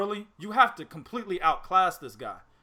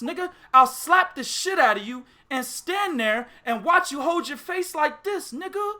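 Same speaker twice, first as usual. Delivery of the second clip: hyped rant; 6 semitones higher than usual. Real, not acted. Pimp rant.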